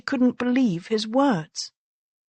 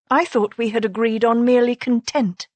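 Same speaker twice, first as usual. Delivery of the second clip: snapped back; 3 semitones higher than usual. Acted. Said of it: "she snapped back".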